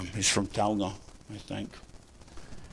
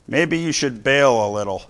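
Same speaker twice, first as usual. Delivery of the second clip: calmly; 4 semitones higher, 6 dB louder than usual. Retold or imitated. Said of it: "kinda calmly".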